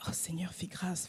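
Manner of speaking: murmured prayer under the breath; whispered prayer. Retold or imitated. Woman praying silently for the shouting stranger, whispered. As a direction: pray quietly to yourself. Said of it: "Je dis".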